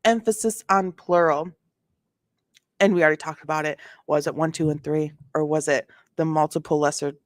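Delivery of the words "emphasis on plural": snarky read, leaning on "plural"; sassy snark. Shown as a demonstration. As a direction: sass it up, punch "plural". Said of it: "Okay, sass and snark".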